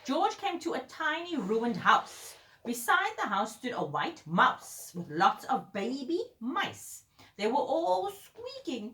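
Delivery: animated bedtime-story narration; story reading to children. A narrator's reading. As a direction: read a picture book to a small child. Reads a picture book aloud.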